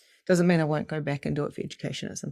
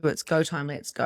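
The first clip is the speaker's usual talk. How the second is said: normal talking voice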